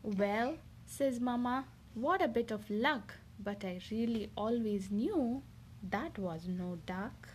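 lively picture-book reading voice; reading to children. Acted. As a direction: read it like a bedtime story for a little one. Mother reads picture book aloud.

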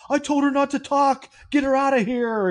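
put-on elderly voice giving orders; old man's order. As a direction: bark it like a creepy old rich man. Voicing the old man ordering.

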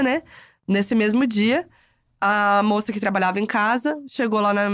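ordinary delivery

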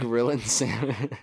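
slow, put-on radio voice on the phrase; mock podcast host. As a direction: draw the name out like a host. Tries voice on phrase.

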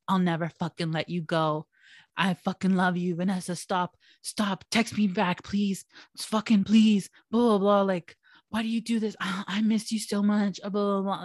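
mildly mocking imitation of begging; imitating desperate pleas; retold groveling. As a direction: plead like a clingy ex, half in earnest. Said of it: "fucking groveling for me".

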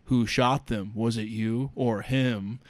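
low, soft, casual menace; nonchalant. Retold or imitated. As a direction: ask it as if it hardly matters, slowing at the end. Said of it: "very nonchalantly turns to the other guy".

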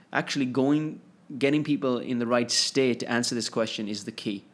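talking between sips of tea; drinking tea. Real, not acted. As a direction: speak around a sip of tea. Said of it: "I'm drinking my nice green tea as I'm speaking".

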